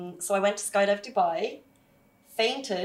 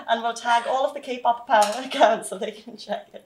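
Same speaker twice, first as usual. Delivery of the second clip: laughing; 3 semitones higher, 4 dB louder than usual. Real, not acted. Joking while laughing.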